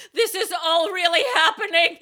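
high, loud, laugh-crying squeal; hammed-up hysterical outburst; mock panic. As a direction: squeal in overwhelmed comic disbelief. Acts out panic before going onstage.

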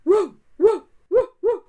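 high, loud yapping barks; dog barking. Acted. Pinocchio as watchdog barking at the chicken thieves, loud yapping. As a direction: bark like a guard dog at thieves.

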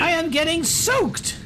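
very high falsetto complaint; yelling noblewoman. Acted. Noblewoman complains to her men in the rain, mock yelling. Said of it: "yelling at them like".

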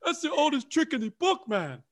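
high, loud, fast mock gloating; hammed-up movie villain's triumphant taunt. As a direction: crow over a fooled rival, laughing. Acting out film villain's gloating.

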